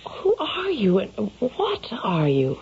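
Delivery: put-on frightened young woman. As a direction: demand it, scared of the stranger. Frightened girl confronts stranger.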